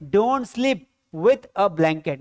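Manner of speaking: very slow, word by word, for the class; slow model sentence. Shown as a demonstration. Teacher dictating an English sentence to students, very slowly. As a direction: spell each English word out slowly for learners. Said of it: "क्या बोलेंगे?".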